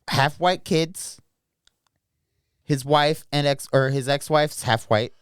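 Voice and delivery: slow, careful explanation; slow and deliberate. Real, not acted. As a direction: spell it out slowly. Slowed explanation.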